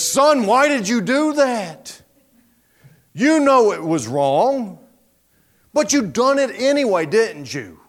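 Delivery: mock-stern telling-off; acted stern scolding. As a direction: confront the guilty boy, drawing out each charge. Acting a prophet scolding the child.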